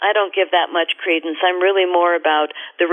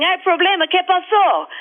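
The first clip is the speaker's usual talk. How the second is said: out of breath; 11 semitones higher than usual. Retold or imitated. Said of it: "So I come up panting".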